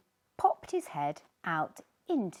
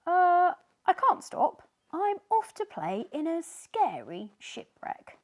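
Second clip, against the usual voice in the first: higher, louder hurried excuse; excuse-making fish; 9 semitones higher, 9 dB louder than usual. Acted. Another fish dodging Sneezy, higher hurried excuse. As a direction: rush off with a bright excuse. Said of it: "said another fish".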